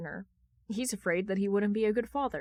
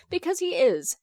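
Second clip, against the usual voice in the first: high, louder excited aside; tossed off with a gleeful punch; emphatic aside; 8 semitones higher, 6 dB louder than usual. A narrator's reading.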